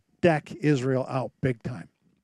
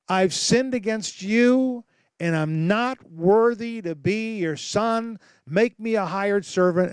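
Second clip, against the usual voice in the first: pleading son; 4 semitones higher, slower than usual. Acted. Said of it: "The son says".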